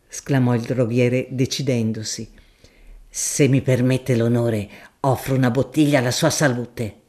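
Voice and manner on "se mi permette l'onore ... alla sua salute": a deferential, earthy shopkeeper making his offer; grocer Gaudenzio. Acted.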